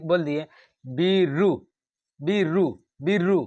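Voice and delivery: बीरू slow, weight on बी; teacher stressing बी in बीरू; stress demo. Shown as a demonstration. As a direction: press the बी of बीरू. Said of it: "बल किस पे ज़्यादा पड़ रहा है".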